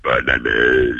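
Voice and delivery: very deep, drawn-out reindeer voice; low animal groan shaped into words; talking reindeer. Shown as a demonstration. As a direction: bellow it like a reindeer. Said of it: "Dis-moi bonne année en renne".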